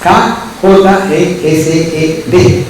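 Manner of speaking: "K J E S E D" spelled letter by letter, slow and deliberate; teacher slowly spelling out "K J E S E D". Shown as a demonstration.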